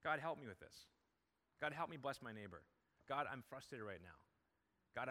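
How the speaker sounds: an intimate prayer spoken straight to God; sample prayer. Shown as a demonstration. Pastor models constant prayer for the congregation, gently. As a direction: pray as if God stands right beside you. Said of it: "I can talk to Him".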